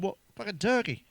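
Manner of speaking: sharp high disbelief; stunned she picked Turkey; incredulous. Retold or imitated. Husband balks at wife's Turkey trip, high incredulous. He's shocked she's going abroad.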